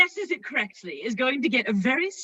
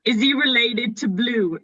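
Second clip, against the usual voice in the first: crisp RP English. Shown as a demonstration. Host shows the guest proper RP English. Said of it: "use a proper English? R P, please".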